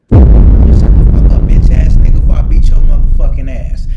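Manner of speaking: roaring playground threat, every word shouted; screamed threat. Retold or imitated. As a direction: scream it at him like you're about to swing. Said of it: "That's what I said".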